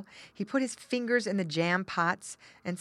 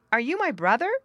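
put-on hopeful child; 7 semitones higher, 7 dB louder, faster than usual. Child asks cat.

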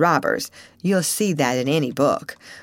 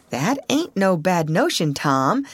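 animated; 2 semitones higher than usual. Acted. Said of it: "said Huck with animation".

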